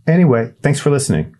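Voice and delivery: put-on high, hesitant kid voice; a nervous boy calling down a well; shy boy Winston. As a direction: Winston introducing himself awkwardly. Winston signing off.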